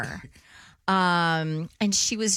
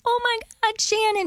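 excited greeting. Retold or imitated. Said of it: "she was like".

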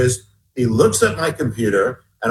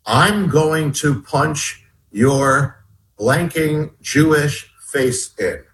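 retold threat; much slower than usual. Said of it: "starts escalating to a whole nother thing".

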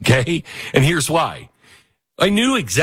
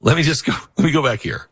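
ordinary talk, nothing marked

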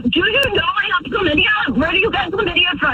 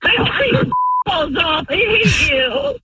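hurt anger; 6 semitones higher than usual. Real, not acted. Wife lashes out at husband.

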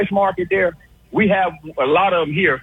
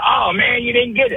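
mock dismay, a bit higher; lightly raised, mimicking voice; imitating changed voice; 4 semitones higher than usual. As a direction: mimic a caller's voice rising when the joke flops. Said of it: "you can hear his voice when he said".

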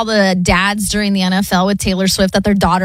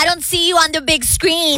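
higher, lightly played teen comeback; mock daughter retort; 6 semitones higher than usual. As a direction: play the daughter talking back to Dad. Co-host plays the daughter answering dad.

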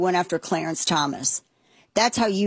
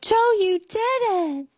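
put-on much higher, slow sing-song praise like to a small child; talking to a toddler; 13 semitones higher, slower than usual. Mocking Jill Biden praising Joe like a toddler, high sing-song. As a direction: coo it as if praising a three-year-old. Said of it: "She talks to him like he's three".

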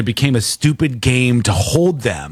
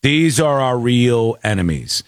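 mock war cry; 5 semitones lower, slower than usual. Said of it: "I go".

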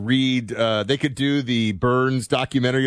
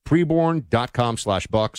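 slower and clearer so listeners catch the web address; slow, deliberate repeat; 2 semitones higher, slower than usual. Shown as a demonstration. Host repeating the web address for listeners, slow and deliberate. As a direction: spell out preborn dot com slash buck slowly, word by word. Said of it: "One more time".

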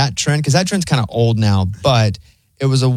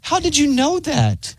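much higher and slow, staged disbelief; acted astonishment; 12 semitones higher, slower than usual. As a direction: stretch out the fake amazement. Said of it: "Your acting was so good".

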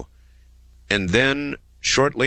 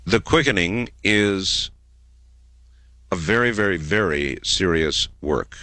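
grave, deliberate emphasis; serious. Real, not acted. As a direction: weigh each phrase with pauses. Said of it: "this is getting serious for a moment".

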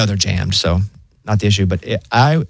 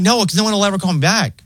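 higher, fed-up mock reply; talking back to the phone bot; exasperated; 9 semitones higher than usual. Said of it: "And I'm like".

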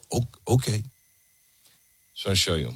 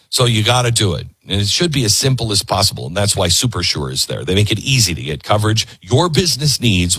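upbeat host ad read; live radio sponsor read. Acted. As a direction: sell it casually to listeners.

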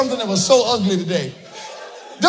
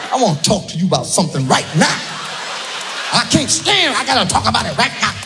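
mock angry wife; 2 semitones lower, faster than usual. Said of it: "she'll see something like".

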